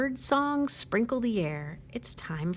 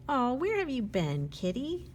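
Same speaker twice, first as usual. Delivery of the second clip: tender greeting; 5 semitones higher than usual. Acted. Watchman greets returned kitten.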